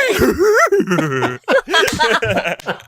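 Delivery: high, loud burst of laughter; laughing hard. Real, not acted. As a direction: crack up at yourself. Laughs after own impression.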